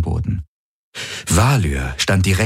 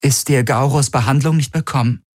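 icy mockery; 8 semitones higher than usual. A narrator's reading. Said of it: "ihre eigene Stimme kalt und tot wie Eis".

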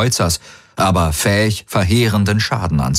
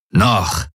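"Noch" set alone, with a falling tune; stress on Noch. A narrator's reading. Commander corrects Galen, stressing "Noch". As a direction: give "Noch" pointed weight as a lone word. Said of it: "betonte der Feldherr".

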